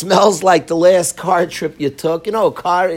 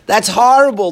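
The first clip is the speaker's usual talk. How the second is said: sarcastic; 3 dB louder than usual. Acted. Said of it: "He's being sarcastic".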